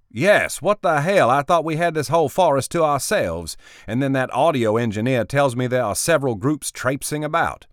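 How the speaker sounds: loud, high irritated outburst; annoyed boss. Acted. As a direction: complain in exasperation.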